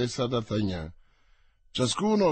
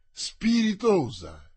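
slow, higher exclamation of wit; dry exclamation; 6 semitones higher, slower than usual. Acted. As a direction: exclaim it slowly, tongue in cheek. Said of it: "esclamò Mazzarino". (esclamazione lenta e ironica)

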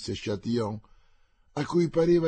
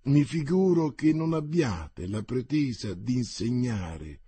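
through tight lips. Acted. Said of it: "a labbra strette e con sguardo scintillante".

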